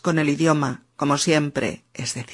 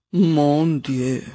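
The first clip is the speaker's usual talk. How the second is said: a touch of French despair; French exclamation. Acted. Frustrated French learner sighing in despair.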